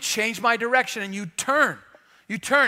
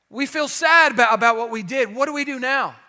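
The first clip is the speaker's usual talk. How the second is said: pleading crowd voice; 3 semitones higher, 4 dB louder than usual. Retold or imitated. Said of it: "Somebody yells out in his message".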